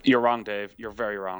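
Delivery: echoey, like in a swimming pool; at an indoor pool. Real, not acted. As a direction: voice bouncing round a tiled hall. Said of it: "You sound like you're in a swimming pool".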